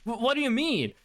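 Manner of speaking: stammering, baffled questions; retold confusion. Other guy answering the cousin, acted confusion. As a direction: imitate a man thrown off mid-argument. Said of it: "starts getting confused".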